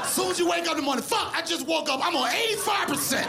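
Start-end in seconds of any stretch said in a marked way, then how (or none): 1.0-3.3 mock complaint. Complaining about phone battery.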